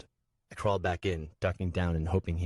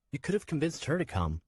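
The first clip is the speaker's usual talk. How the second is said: put-on high young boy's voice, pleading; a small boy reminding the man; child voice; 9 semitones higher than usual. Nico to Swen, a high boy's voice.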